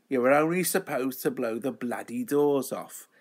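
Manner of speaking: lightly done film-star impression; a hint of a well-known actor's delivery, badly imitated; Michael Caine. Host badly mimicking a film star's famous line, lightly voiced impression. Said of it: "Michael Caine impression".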